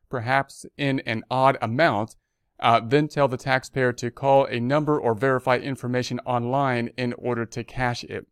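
measured read-aloud of an official notice; news read. Real, not acted. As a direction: read the bulletin out formally. Reads the notice.

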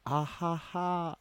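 slow, drawn-out ah-ha-ha laugh, hammed-up; mock ah-ha-ha laugh. Shown as a demonstration. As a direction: laugh slowly, each ha starting on an open ah. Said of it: "start your laughs with an A".

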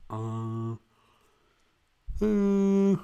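high, slow, put-on puzzled voice; hammed-up feigned memory loss; fake confusion. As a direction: play dumb, over the top. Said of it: "I woke up and I was like".

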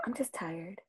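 very soft, low reply; retold meek murmur; downplaying distress. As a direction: brush off concern in a small voice. Acted downcast reply to teacher.

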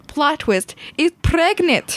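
high, drawn-out gossip bombshell; dramatic reveal. Acted. Child telling parent the plot twist, dramatic reveal. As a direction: drop the twist with playful drama.

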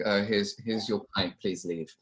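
imitated weary pub dismissal; unimpressed British bartender. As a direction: hand it over and dismiss them. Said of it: "Like, the Americans".

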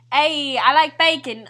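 put-on slow, loud Canadian accent. Player repeating the bacon clue, slow exaggerated Canadian accent. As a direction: draw out a mock Canadian accent. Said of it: "Oh, Canadian".

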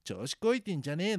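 lightly acted scrappy manga heroine squaring up; 牧野つくし. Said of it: "牧野つくしの". (喧嘩腰のヒロインの真似)

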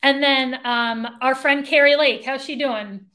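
mock-friendly sarcastic question. Real, not acted. Co-host asking about a candidate she mocks, sarcastic. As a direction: ask with dry, feigned interest. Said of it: "I say that sarcastically, by the way".

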